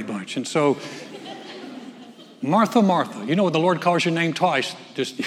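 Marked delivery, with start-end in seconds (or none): 2.4-3.2 laughing. Retold or imitated. Laughing at calling her name twice.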